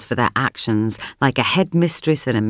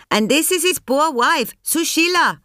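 presenting; 13 semitones higher than usual. A narrator's reading. Presenting wife to press.

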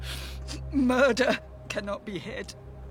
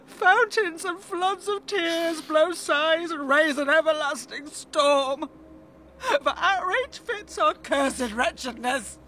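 tragic heroine sorrow; 4 semitones higher than usual. Acted. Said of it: "Oh, gush out tears".

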